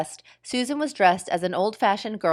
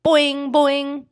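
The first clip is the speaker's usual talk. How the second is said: high, louder taunting boing; teasing; 7 semitones higher, 5 dB louder than usual. Acted. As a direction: tease her. Teasing children.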